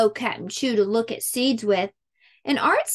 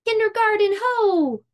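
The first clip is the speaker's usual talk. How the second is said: pirate call; 10 semitones higher than usual. A narrator's reading. Pirate girl spots land.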